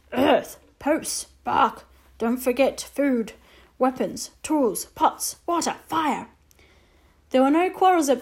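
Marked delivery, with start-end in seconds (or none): 0.1-6.3 terse and grave; Little Bear voice. Acted. Little Bear to the boy, slow and terse.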